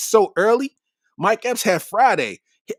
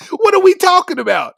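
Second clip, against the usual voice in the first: incredulous; 9 semitones higher, 6 dB louder than usual. Real, not acted. Incredulous at LeBron haters.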